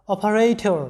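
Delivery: অপারেটর with its ending sounded অর; pronunciation demo. Shown as a demonstration. Teacher models অপারেটর for students, pronunciation demo. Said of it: "এরকম হবে উচ্চারণটা".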